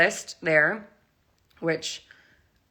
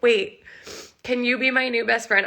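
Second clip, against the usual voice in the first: eager blurt; 6 semitones higher than usual. Retold or imitated. To the stranger, an eager high blurt. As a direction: gush like a fan meeting a hero. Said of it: "I probably sounded so nuts".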